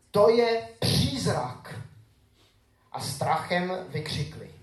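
scripture reading. Acted. Pastor reading Matthew to his congregation, solemn and measured. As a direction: read the gospel to the congregation with weight.

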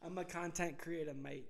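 mock Australian accent. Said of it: "Or thank you, mate?".

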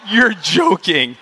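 acted-out incredulous reply; retold disbelief. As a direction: draw it out, acting stunned. Acting out disbelief at confession.

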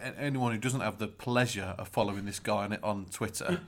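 weight the word "pleasure" so it sounds sardonic; stress on pleasure. Real, not acted. Introducing his co-host to listeners, ironic stress on "pleasure". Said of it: "Don't know why you emphasise the word pleasure".

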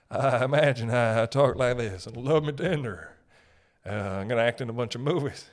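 loosely sketched celebrity impression; lightly put-on singer's voice, halting; a singer. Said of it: "Didn't sound like that at all".

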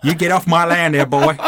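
laughing Texas cowboy voice; cowboy drawl. Pretend. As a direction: threaten like an old rancher. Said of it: "Sounds like a Chinese cowboy".

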